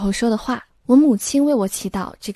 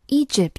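"Egypt" with the stress on E; stress on first syllable; 4 semitones higher than usual. Shown as a demonstration. Teacher showing learners how to say the country name, "Egypt" stressed at the start. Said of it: "重音在首字母前面".

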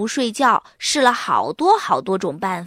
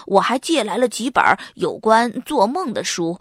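concerned; 2 semitones lower than usual. Acted. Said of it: "关心地说".

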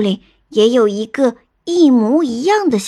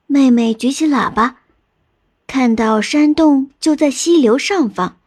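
ordinary delivery, nothing marked

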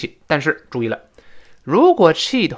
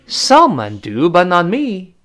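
wronged; 4 semitones higher, 4 dB louder, slower than usual. Acted. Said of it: "还是觉得委屈嘛".

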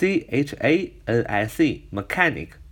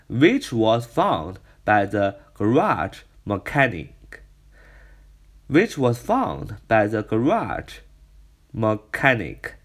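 slow, careful reading of the clause; slow repeat; slower than usual. Shown as a demonstration. Teacher rereading the clause slowly for students. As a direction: read the which clause slowly again. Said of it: "那这个裂缝是谁发现呢".

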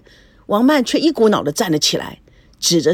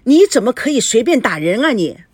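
firm, louder rebuke; raised voice, rebuking the attacker; scolding; 4 semitones higher, 4 dB louder than usual. Acted. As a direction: pull her back and tell her off. Stops wife hitting her rival.

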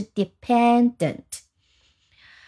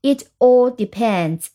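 slow demo; slower than usual. Shown as a demonstration. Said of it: "第三人称单数".

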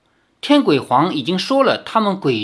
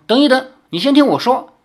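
hasty plea; 10 semitones higher, 5 dB louder, faster than usual. Acted. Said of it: "李逍遥连忙说".

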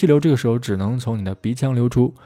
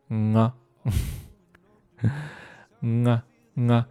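ng-ah demo; 5 dB quieter than usual. Shown as a demonstration. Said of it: "这个恶心的声音".

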